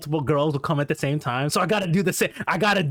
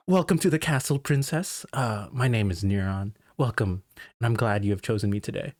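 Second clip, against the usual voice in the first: smooth host welcome, slightly lower at the end; host greeting; 6 semitones lower than usual. Retold or imitated. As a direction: greet her like a suave club host. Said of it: "you gotta tell her your name".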